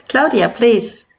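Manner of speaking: usual speaking voice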